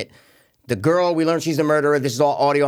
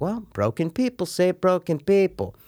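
mock preachy lady; 4 semitones higher than usual. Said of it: "some lady to be like".

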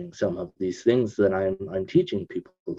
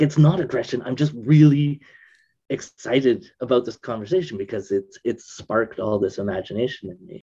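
excited; 2 semitones higher than usual. Retold or imitated. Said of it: "when I get excited".

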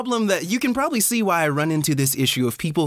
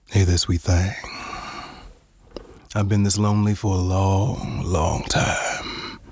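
A soul singer; 7 semitones lower than usual. Acted. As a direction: croon it like a lovesick soul singer. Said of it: "That was my favorite cricket impression".

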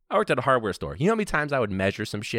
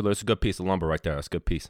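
lightly imitated Chicago lumber-yard talk; suburban Chicago accent. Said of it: "I'm starting to talk like that shit".

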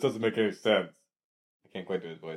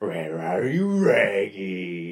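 Scooby-Doo voice; 5 semitones lower, much slower than usual. Retold or imitated. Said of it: "Scooby-Doo".

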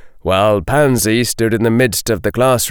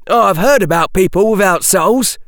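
gloomy; 9 semitones higher than usual. A narrator's reading. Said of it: "Dean Thomas said gloomily".

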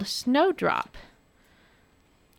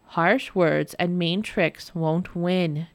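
gentle reminder; 2 semitones lower, slower than usual. Acted. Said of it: "Jamie reminded her".

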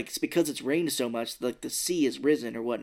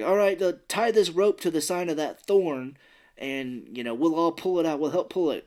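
imitating Yubaba; 4 semitones higher, 4 dB louder than usual. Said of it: "Yubaba's like".

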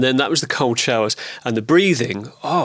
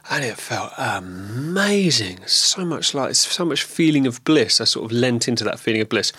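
mouth full of saliva. Real, not acted. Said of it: "my voice sounds a little bit".

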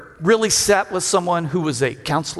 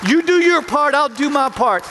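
reassuring God; 7 semitones higher than usual. Retold or imitated. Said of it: "And God's going".

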